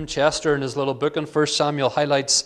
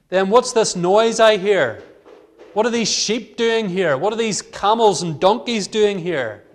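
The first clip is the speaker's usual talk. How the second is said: indignant Samuel; 4 semitones higher, 3 dB louder than usual. Acted. Samuel confronting Saul.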